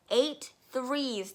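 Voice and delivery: loud, barked numbers; shouting. Acted. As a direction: bark it while swinging the boy. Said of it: "the Trunchbull shouted".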